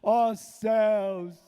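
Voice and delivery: clamor agudo, arrastado e melodramático; lamento gritado fingido. Acted. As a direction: gemer alto aos céus, em tom de deboche. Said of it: "começou a gritar". (choradeira teatral aos berros)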